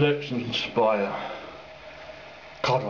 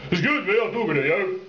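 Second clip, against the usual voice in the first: deep voice. Shown as a demonstration. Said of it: "one of those deep voice ones".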